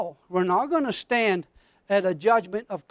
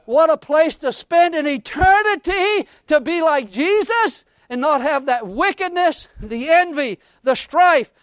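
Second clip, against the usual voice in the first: loud, punched preacher's litany; fervent preaching; 3 semitones higher, 6 dB louder than usual. Real, not acted. Preacher rejoicing over heaven to the congregation, fervent. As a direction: hammer out each item to the congregation.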